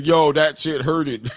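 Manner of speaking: mock shout through laughter; laughing quote. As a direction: laugh it out, half yelling. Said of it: "Detroit B C says".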